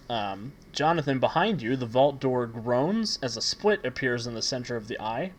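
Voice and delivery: measured, dramatic scene-setting; game master narration. Acted. Game master describing the vault room to players, measured narration. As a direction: unfold the scene as a storyteller.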